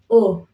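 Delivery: O said clear and round; vowel O. Shown as a demonstration. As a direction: model the Swahili O for repeating. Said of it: "you still say O".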